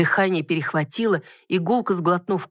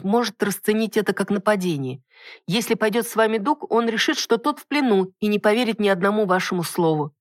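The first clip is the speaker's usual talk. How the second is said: lightly voiced heroine, pitched higher; higher-set voice, explaining a decision; 3 semitones higher than usual. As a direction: reason with the captain in a higher voice.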